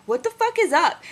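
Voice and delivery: high, loud startled what the fuck; shocked staff. Retold or imitated. Nurse and doctor seeing him grab baby, alarmed. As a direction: blurt it out alarmed. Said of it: "The nurse and doctor were like".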